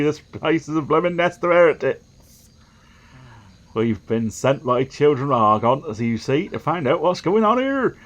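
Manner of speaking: lightly voiced inquisitor reporting; a hint of a self-important heretic hunter; zealous envoy. Envoy sent by children of Argon reports on the farm, lightly voiced zealot.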